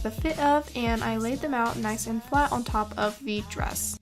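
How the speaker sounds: soft, even tutorial voiceover; calm how-to narration over music. Acted.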